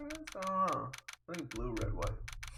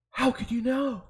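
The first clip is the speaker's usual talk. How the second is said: high, louder startled question; 10 semitones higher, 10 dB louder than usual. Acted. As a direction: ask it as if caught out. Voices startled Miss Fay.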